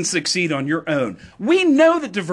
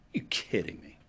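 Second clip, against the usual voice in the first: incredulous whisper; 10 semitones lower, 11 dB quieter than usual. Real, not acted. Scoffing at pretended campaign line.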